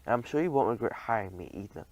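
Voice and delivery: whispered with a cheeky grin; sly grin. Acted. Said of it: "with a grin".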